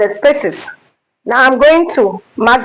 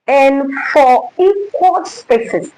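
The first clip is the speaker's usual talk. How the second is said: slow, each word weighted; emphasized; 2 semitones higher, slower than usual. Shown as a demonstration. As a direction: lean on "equal". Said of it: "I emphasize again".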